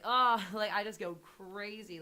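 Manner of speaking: a hammed-up scared yelp; frightened cry. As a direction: jolt as if spooked. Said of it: "I'm just like".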